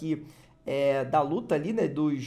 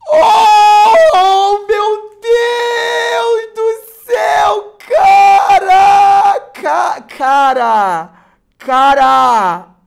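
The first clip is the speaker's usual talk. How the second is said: very high, very loud screaming; ecstatic scream; 17 dB louder, much slower than usual. Real, not acted. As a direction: scream in pure joy. Screams at the rare pull.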